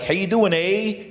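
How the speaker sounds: polite Canadian greeting, lightly imitated; mock Canadian accent with a tagged-on "eh". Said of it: "In Canada, they're like".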